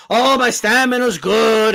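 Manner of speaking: slow, smug mock boast. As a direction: parody a bragging fighter. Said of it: "he kept talking about his stamina".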